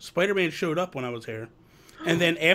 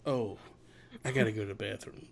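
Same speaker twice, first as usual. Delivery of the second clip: imitation; 8 semitones lower, 10 dB quieter than usual. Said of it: "Joseph's like".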